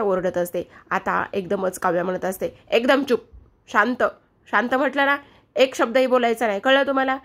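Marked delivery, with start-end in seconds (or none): 2.7-7.2 stern command. Acted. Kavya silences the shouting aunt.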